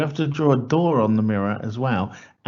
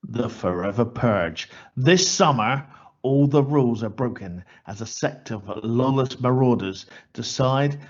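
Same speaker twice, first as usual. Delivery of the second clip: horror trailer voice. Acted. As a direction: read it like a movie trailer voiceover. Reads a horror film synopsis.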